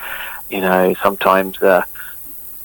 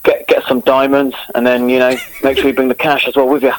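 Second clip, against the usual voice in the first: London geezer in Cockney; chatty Cockney wide-boy patter; Cockney accent. Shown as a demonstration. Guest giving the host a Cockney on request, Cockney accent. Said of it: "give us a Cockney".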